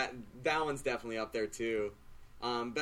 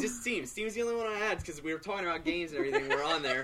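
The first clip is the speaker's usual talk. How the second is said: laughing; 6 semitones higher than usual. Real, not acted. Laughing follow-up.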